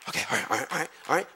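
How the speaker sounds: very soft, low mumble; settling down. Real, not acted. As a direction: come down from the outburst, barely voiced. Settles himself after outburst.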